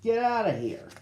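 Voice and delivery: high, sharp shout; yell. A narrator's reading. Sam chasing the gang off, high shout. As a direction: chase them off with a yell. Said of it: "he yelled".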